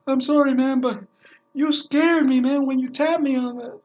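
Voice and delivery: a hint of a rattled driver explaining; shaken cab driver. Cab driver apologizing to his passenger, mildly shaken. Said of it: "the cab driver goes".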